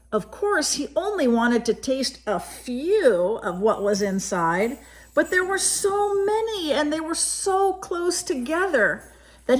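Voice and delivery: put-on gentle read-aloud voice for a child; story narration. A narrator's reading. Reading a picture book to a child, gentle storytelling. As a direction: tell it like a bedtime picture book.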